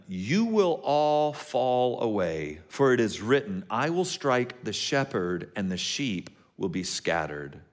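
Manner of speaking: sermon scripture reading voice. Acted. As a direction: read the passage with weight. Reads Mark fourteen aloud.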